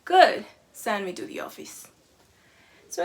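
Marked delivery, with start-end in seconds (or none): 0.1-1.9 defiant student. Retold or imitated. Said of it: "the student says".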